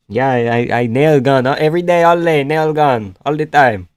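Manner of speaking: lightly put-on Latino accent; Latino construction worker. Streamer playing along as construction man, mock Latino accent. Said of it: "good Latino construction man accent".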